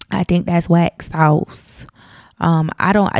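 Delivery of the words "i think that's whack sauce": slow, drawn-out Southern twang; a little Southern twang, unhurried. Real, not acted. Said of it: "a Southern twang on my voice".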